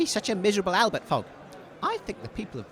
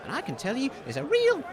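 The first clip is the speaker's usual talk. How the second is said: radio presenter; 2 semitones higher than usual. Acted. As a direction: announce it like the big broadcast. Radio host intro.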